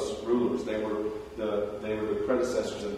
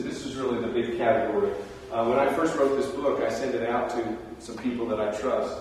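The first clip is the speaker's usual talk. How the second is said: usual speaking voice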